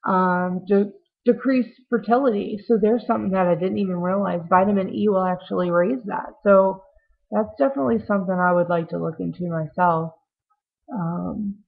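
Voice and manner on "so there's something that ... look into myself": jittery. Real, not acted. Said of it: "sorry I'm so jittery today".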